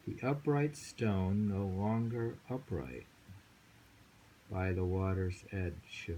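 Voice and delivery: slow, measured poetry recital; poem reading. Acted. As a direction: paint the still pond line by line. Reads a poem aloud.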